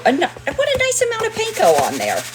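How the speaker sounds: squeaked up very high; high squeaky voice. Pretend. Repeats line, first take squeaky high.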